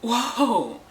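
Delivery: high, loud and drawn out, half laughing; high mock alarm calling a friend off; alarmed warning. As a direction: stop them in alarm, laughing. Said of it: "And I'm like".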